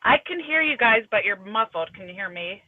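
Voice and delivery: muffled, boxed-in sound; inside a box. Real, not acted. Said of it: "you just sound like you're in a box".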